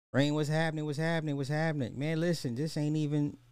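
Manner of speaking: high-pitched hyped greeting. Acted. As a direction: greet a friend high and bright.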